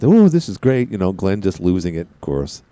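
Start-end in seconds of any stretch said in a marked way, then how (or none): 0.0-0.9 retold excitement. Retells own gushing over project.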